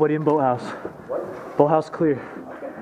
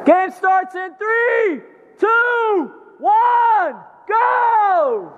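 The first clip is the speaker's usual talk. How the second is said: countdown shout; 3 semitones higher, much slower than usual. Real, not acted. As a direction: call out the count, building to go. Countdown called out to players.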